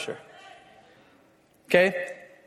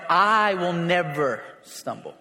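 long drawn-out "I", slow through "never"; stress on I; 3 semitones lower, slower than usual. Retold or imitated. Preacher quoting proud Peter to Jesus, stress on "I". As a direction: stretch the "I" as Peter insisting. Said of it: "There's a lot of "I" in his statement".

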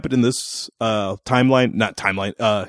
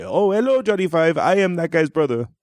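Indian accent imitation; 3 semitones higher than usual. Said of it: "a real Indian guy".

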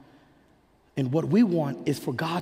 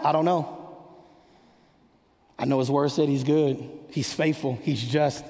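calm assurance; 2 semitones lower than usual. Acted. Believer calmly answers the doubter.

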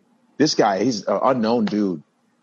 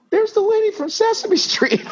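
high excited announcement into the mic; high-pitched excited shout-out; calling out on mic. Retold or imitated. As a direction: call her out to the whole room.

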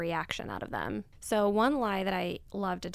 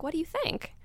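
deadpan challenge; 10 semitones higher than usual. Retold or imitated. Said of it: "look them dead in the eye".

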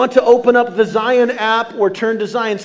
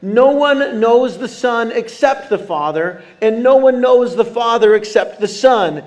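scripture reading. Acted. Pastor leading the church through Matthew eleven aloud, measured reading voice. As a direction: read it out like a pastor leading the room.

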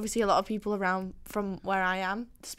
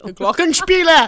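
mock German; 6 semitones higher, 13 dB louder than usual. Mock German shout of funny word.

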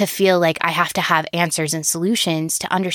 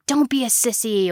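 harsh coach; 4 semitones higher than usual. Retold or imitated. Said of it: "like, harsh language".

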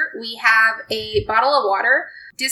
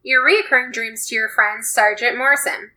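story narration. Acted. Second player reads story card.

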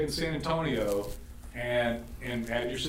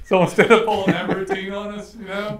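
higher, louder, through laughter; laughing; 9 semitones higher, 8 dB louder than usual. Real, not acted. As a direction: still laughing from the bit. Laughing after the cowboy bit.

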